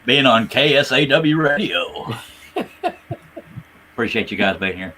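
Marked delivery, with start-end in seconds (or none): 0.0-2.1 radio voice. Shown as a demonstration. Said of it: "That's my radio voice".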